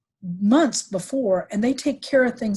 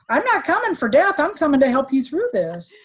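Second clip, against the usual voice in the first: insistent reassurance; 7 semitones higher, 3 dB louder than usual. Retold or imitated. Her retold reply to dying brother.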